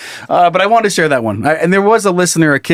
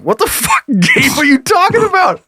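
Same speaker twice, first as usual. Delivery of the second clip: mocking brother; 12 semitones higher than usual. Retelling the brother's group-chat reply, high and mocking. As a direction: squawk it like a baffled brother.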